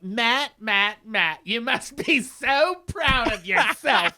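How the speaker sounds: imitated sarcastic congratulation, stretched out; mock unhinged taunt. Contestant taunting Matt, mock unhinged. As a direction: drag out the scornful praise, mockingly.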